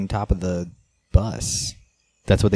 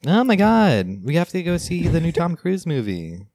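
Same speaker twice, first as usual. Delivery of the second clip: high-pitched mock European accent; hammed-up European moviegoer gushing, pitched way up; European impression; 8 semitones higher than usual. European fan urging friends to the new movie, high mock European accent. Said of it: "that's my European impression".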